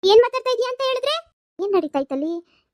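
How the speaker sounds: loud outraged shout. Acted. Mother storms in on the quarrel, outraged shout. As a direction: blast it out in outrage.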